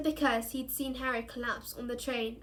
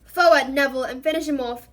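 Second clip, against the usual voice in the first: loud urging; 12 dB louder, faster than usual. A narrator's reading. Lupin urges Neville.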